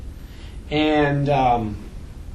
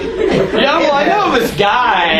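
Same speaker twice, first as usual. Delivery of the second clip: slow, chuckling aside; laughing mock confession; 5 semitones higher, 3 dB louder, much slower than usual. Laughing through it as the sheep's defender. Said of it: "You say that like".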